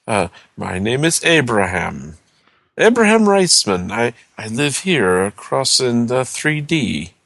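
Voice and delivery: lightly voiced old neighbor; frail, worried old gentleman; small old man voice. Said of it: "he goes".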